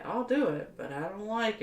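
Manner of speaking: talking through hiccups. Real, not acted. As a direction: hiccup between words. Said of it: "Excuse me, I got the hiccups".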